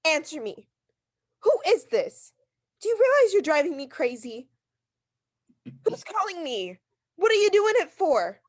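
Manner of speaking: loud, frantic and commanding; hysterical anger. Acted. Invalid screaming at the anonymous caller, hysterical. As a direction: she is at the end of her rope.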